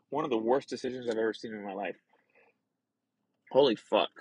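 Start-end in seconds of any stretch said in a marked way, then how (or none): 0.1-1.9 coughing after water went down wrong; talking through a cough. Real, not acted. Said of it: "water went down the wrong hole".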